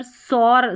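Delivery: सौर with a plain s instead of sh; wrong initial s. Shown as a demonstration. Teacher showing learners the reading to avoid, wrong s in सौर. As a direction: begin सौर on a hissed s, no sh. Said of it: "स नहीं पढ़ते".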